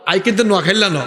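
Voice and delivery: put-on Noakhali dialect. Shown as a demonstration. Sylheti preacher shows he can speak Noakhali dialect. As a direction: say it as a Noakhali local would. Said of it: "কিন্তু আপনাদের নোয়াখালীর ভাষাও".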